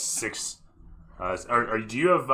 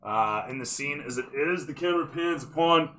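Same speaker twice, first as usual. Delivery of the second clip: cinematic narrator, lifted pitch; game master scene setting; 6 semitones higher, 4 dB louder than usual. Acted. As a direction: sweep the scene toward the player.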